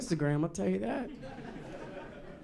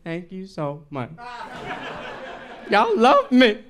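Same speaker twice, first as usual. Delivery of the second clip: loud, high, squealing thanks; hammed-up overjoyed inner child; friend's secret joy at his birthday cake; gushing delight; 10 semitones higher, 9 dB louder than usual. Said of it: "The twinkle in his eye was like".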